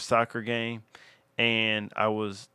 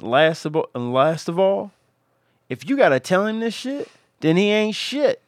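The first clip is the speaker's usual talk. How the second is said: higher and louder, building to a punchline; heated fatherly warning; 9 semitones higher, 4 dB louder than usual. Retold or imitated. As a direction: drive the last rule home, worked up. Father's rules, climax of lecture.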